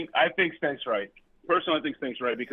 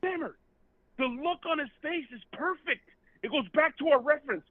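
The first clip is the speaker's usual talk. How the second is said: yelling with excitement; excited; 10 semitones higher than usual. Real, not acted. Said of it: "excited shouting about golfer".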